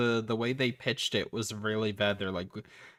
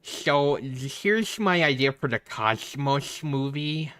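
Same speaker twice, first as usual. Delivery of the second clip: slow, lisping braces voice; 4 semitones higher, 4 dB louder, slower than usual. Pretend. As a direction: talk like a kid with braces. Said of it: "Stop doing that braces voice".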